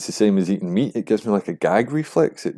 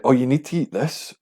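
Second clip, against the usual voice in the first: higher, nagging mimicry; mocking pushy person; 5 semitones higher than usual. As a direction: imitate someone pushing food on you. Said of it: "saying, like".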